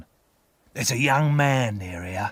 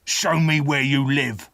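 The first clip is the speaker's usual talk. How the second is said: curt, slightly louder order; demanding; 2 semitones higher, 3 dB louder than usual. Acted. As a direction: command the boy to show you. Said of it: "the terrible man demanded".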